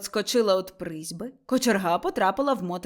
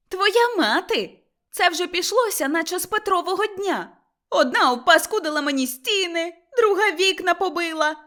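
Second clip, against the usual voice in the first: high, loud, furious yelling; shrieking while hurling mud; angry shout; 9 semitones higher, 5 dB louder than usual. A narrator's reading. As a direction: scream accusations at him. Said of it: "крикнула Мотря".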